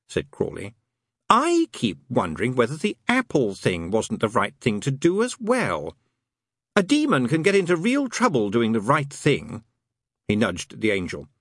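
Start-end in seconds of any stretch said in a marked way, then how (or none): 1.3-9.6 lightly voiced wry demon, pitched higher; a demon poking fun, wry; knowing demon. Demon mocking God's garden to the angel, wry.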